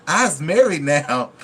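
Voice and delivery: slow, drawn-out mock quote; imitating a movie character, slow; imitating her line. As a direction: stretch it out like the character. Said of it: "That's how she said it".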